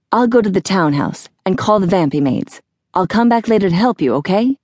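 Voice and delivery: a hint of a dude making his exit, quickening; lightly put-on casual voice, speeding up; lightly voiced hurried Phineas. Phineas excuses himself before teleporting away, hurried casual dude.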